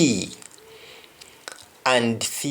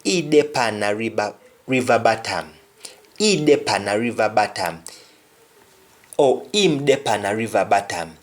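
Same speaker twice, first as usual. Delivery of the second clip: "He dey pan a river bottom" in a Jamaican Patois lilt, "bottom" as "batam"; matter-of-fact Patois statement. Shown as a demonstration. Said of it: "somebody will say".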